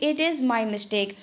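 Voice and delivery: very slow, every word separated; Hindi: बहुत धीरे, हर शब्द अलग; slow model phrase. Shown as a demonstration. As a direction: say it slowly for students to copy. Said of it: "या फिर".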